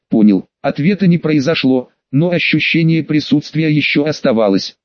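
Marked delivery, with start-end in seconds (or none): 0.1-0.5 low, loud otherworldly voice; a curt reply from beyond the grave; eldritch horror. A narrator's reading. Ghostly voice answers curtly.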